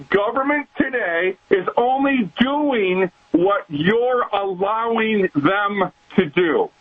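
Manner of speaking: slow, weighty sermon emphasis; slow emphatic. Real, not acted. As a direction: lay each word down slowly. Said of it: "Let me say it again".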